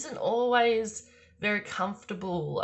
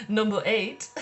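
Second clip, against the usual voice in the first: laughing emphasis; 4 semitones higher, 6 dB louder than usual. Shown as a demonstration.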